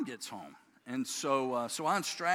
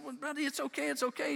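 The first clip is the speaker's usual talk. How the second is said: reassuring dad; 10 semitones higher than usual. Retold or imitated. Dad soothes crying child.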